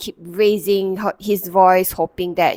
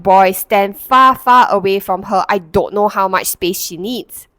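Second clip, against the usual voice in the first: mock yell; 5 dB louder than usual. Father yelling at his son to stand away. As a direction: bark at the boy to back off. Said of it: "He actually yelled and said".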